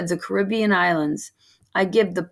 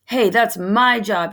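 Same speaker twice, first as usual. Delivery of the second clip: mild shout; 3 semitones higher, 3 dB louder than usual. Acted. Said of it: "he shouts".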